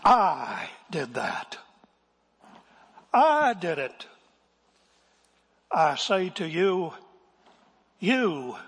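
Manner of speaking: loud, slow, drawn-out confession from the pulpit; W A Criswell. Retold or imitated. Pastor accusing himself and congregation, imitated dramatic pulpit voice. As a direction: stretch the pronouns and hit them hard. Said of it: "said Criswell".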